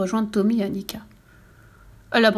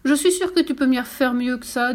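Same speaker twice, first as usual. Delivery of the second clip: encourageant; 4 semitones higher than usual. Acted. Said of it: "dit-elle pour l'encourager".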